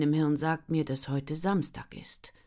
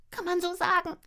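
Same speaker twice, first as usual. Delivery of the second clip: glum friend. Acted. Jette's glum reply.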